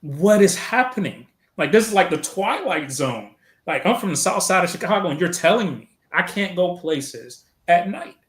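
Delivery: high, incredulous what-is-going-on; retold disbelief. Airman to fellow recruits, retelling his stunned disbelief. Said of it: "we're looking around like".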